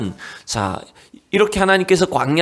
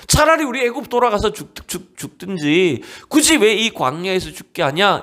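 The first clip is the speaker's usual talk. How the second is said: raised, whiny grumble of the people; grumbling Israelites; 5 semitones higher than usual. Acted. Pastor voices the people grumbling at God, higher and whiny. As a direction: complain like a bitter crowd. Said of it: "막 원망을 했".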